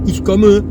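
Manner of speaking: ich komme with a too-long O; French-style German. Shown as a demonstration. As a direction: imitate the French learner's komme. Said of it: "les Français vont dire".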